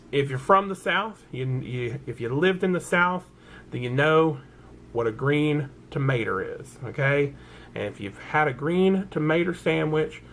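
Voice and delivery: hammed-up Southern twang; Southern accent. To viewers who know green tomatoes, hammed-up Southern accent. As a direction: play up a down-home Southern accent. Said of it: "that's probably my real accent".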